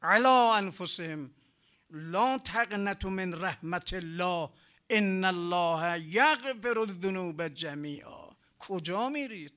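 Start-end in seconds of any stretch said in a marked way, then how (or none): 0.0-8.3 slow, emphatic Arabic recitation; Quran recitation. Acted. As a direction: recite the verse out firmly, drawing out the words. (تلاوت شمرده و محکم آیه)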